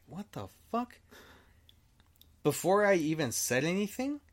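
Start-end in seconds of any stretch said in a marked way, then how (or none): 0.1-1.0 sudden high startled question; jolted by a bang behind you; a retold jump of fright, pitched up. Startled by thud on wall.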